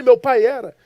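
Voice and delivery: loud, high-pitched insistence; emphatic retort. Retold or imitated. Son contradicts the stranger about his father, heated insistence. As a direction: fire back in defence, loud and high.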